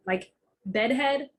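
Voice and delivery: "bedhead" said slowly, both halves drawn out. Shown as a demonstration. Showing a family word she grew up with, said slowly. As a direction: lean on bedhead, stretched out slow. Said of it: "I didn't know it was headboard".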